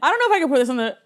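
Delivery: high, loud laughter, slowing into a laugh-cry; can barely get the words out for laughing; embarrassed laughter. Real, not acted. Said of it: "I'm embarrassed".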